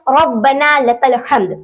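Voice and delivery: "लकल हम्द" with no wa, throaty h; correct recitation. Shown as a demonstration. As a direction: model "हम्द" with a throaty Arabic h. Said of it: "तो सही है". ("हम्द" में हलक़ी "ह", बिना "व")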